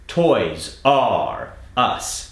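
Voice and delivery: very slow, every R stretched out; slow drill. Shown as a demonstration. Accent coach modeling a drill line, very slow. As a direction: spell it out slowly for the learner. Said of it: "Let's try the next sentence".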